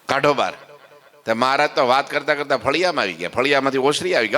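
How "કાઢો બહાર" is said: laughing. Retold or imitated. Narrator repeating husband's order, laughing.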